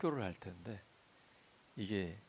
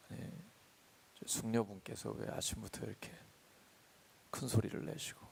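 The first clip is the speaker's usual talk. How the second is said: meek and gentle; 6 dB quieter than usual. Pretend. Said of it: "온유하게 그리고 아주 겸손하게".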